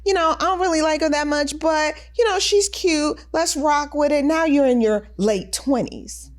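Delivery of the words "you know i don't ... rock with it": noncommittal shrug. Retold or imitated. Voicing a lukewarm boyfriend's thoughts.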